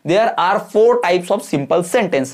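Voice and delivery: very slow, word by word dictation. Shown as a demonstration. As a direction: spell it out slowly for students to copy. Teacher dictating answer slowly. (धीमे-धीमे लिखवाते हुए)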